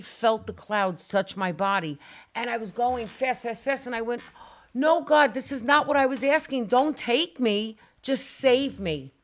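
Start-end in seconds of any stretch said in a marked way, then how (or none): 4.7-9.1 loud, high cry of no God, slowing into pleading; desperate plea. Retold or imitated. Retold plea while flying upward.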